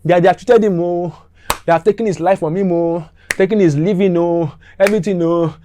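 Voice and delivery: high, loud shouting complaint; outraged shouting. Retold or imitated. The angry driver shouts to everyone that he was cheated, loud and high. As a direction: yell it like you've been robbed. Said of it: "Guy just started shouting".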